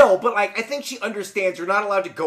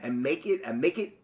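measured, quieter storybook reading; story narration; 3 semitones lower, 4 dB quieter than usual. A narrator's reading. Podcaster reading a folk tale to co-host, story narration. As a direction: read the tale with lilting emphasis.

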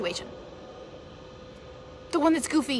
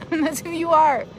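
slow "That's who you are." said through a laugh; 4 semitones higher, 6 dB louder than usual. Real, not acted.

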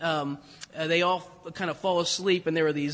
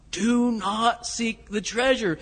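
repeated warning; 3 semitones higher, slower than usual. Retold or imitated. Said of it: "he just repeats his line".

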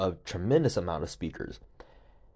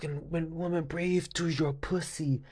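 breathy, slow mock meditation guide voice; softly whispered guru breathing instructions; 7 semitones higher, 4 dB quieter, slower than usual. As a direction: imitate a hushed yoga teacher, stretching each word. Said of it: "she was like".

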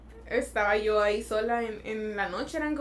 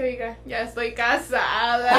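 laughing while quoting herself; 4 dB louder, slower than usual. Retold or imitated. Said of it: "le dije".

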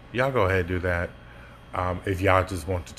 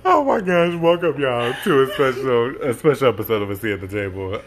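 excited host intro; 6 semitones higher, 8 dB louder than usual. Pretend. Hyped podcast intro after voice game.

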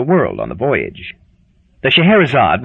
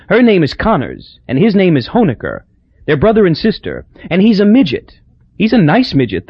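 Hazel's voice; 6 semitones higher than usual. Acted. Hazel gossiping.

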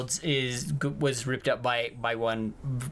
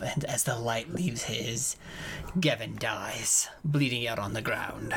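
whispered narration; 4 semitones lower, 5 dB quieter than usual. Acted. Dramatic death narration.

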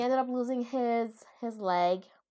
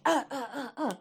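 imitated pained grunts; 5 semitones higher than usual. Imitating villain being hit.

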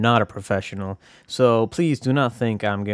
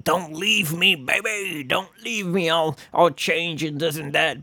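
high, wheedling plea not to be left; mock pleading; 5 semitones higher than usual. Speaker imagines begging a departing lover, mock pleading. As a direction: beg in a higher put-on voice.

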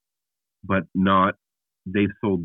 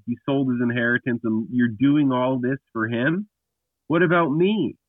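higher, indignant retold protest, not shouted; mildly angry son; 3 semitones higher than usual. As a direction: plead your case as the wronged older son, a touch bitter. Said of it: "He's pissed".

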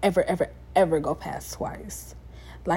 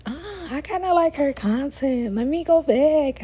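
imitating a listener; 7 semitones higher than usual. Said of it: "you be thinking like".

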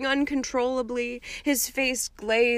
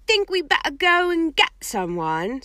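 higher, a touch uneasy; half-whispered worry at the door; nervously; 7 semitones higher, 4 dB louder than usual. A narrator's reading. Ron nervous outside Hagrid's moaning cabin, higher voice. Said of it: "said Ron nervously".

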